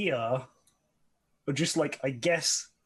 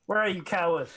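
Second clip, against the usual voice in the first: raised, higher taunting call; challenging call; 5 semitones higher, 4 dB louder than usual. Acted. Player calling out the hidden enemy leader, challenging.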